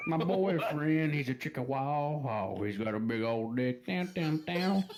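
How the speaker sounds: spinning in office chair. Real, not acted. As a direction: voice swirling while spinning in a chair. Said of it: "it sounds like I'm in a microwave".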